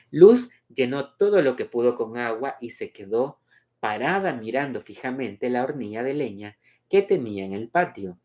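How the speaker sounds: measured, melodic read-aloud; story narration. A narrator's reading. Reader presenting Luz's memory of midday, story narration.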